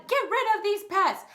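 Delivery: loud, high get rid of them; shouting friends. Acted. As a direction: yell it as an angry herd. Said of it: "all Thidwig's friends shouted".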